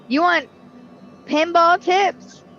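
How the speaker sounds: high, slow hyped-up pitch; excited pitch. Acted. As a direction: sell the pinball tips like an announcer. Hyping pinball tips to viewers.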